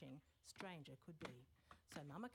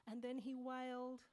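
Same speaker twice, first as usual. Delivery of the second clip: rising wail; 6 semitones higher, 5 dB louder than usual. A narrator's reading. Narrator rises into wail.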